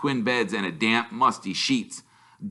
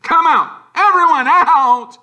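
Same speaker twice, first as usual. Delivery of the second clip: high, loud, slow command; barking order; 11 dB louder than usual. A narrator's reading. Uncle Vernon to family, loud order. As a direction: bellow everyone out of the car.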